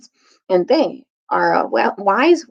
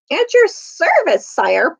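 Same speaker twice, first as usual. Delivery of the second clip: mild piping; 6 semitones higher, slower than usual. A narrator's reading. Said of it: "piped Ricochet".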